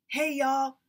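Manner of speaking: high, loud call for help; angry man calling his lumbermen; yelling. Acted. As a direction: holler at the workers. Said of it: "Mister Anderson yelled".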